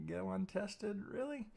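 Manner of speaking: rising, high disbelieving Really; incredulous disbelief. Retold or imitated. Trader staring at an untested level in disbelief, rising pitch. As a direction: sound like you can't believe it stays untested. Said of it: "It just leaves you going".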